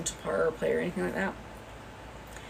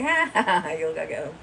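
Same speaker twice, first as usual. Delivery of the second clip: mocking laugh; 3 dB louder than usual. Laughing at the rival's photo, mocking ha ha. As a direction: laugh at her photo out loud. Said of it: "I'm laughing at it because I'm like".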